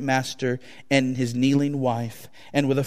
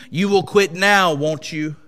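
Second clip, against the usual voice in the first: higher, louder demand; exclaiming master; 4 semitones higher, 5 dB louder than usual. Acted. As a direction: bark the question at him. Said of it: "the master exclaimed".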